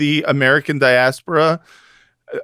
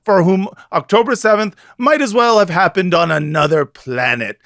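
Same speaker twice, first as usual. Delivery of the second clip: dramatic reading. Acted. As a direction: read it like a grave editorial. Reads article aloud dramatically.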